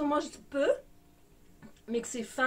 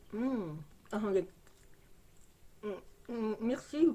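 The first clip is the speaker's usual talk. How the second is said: talking while chewing candy; muffled by food in mouth; mouth full, chewing; 5 dB quieter than usual. Real, not acted. Seen 3: Bites candy at -1, then chews with hand at lips while speaking.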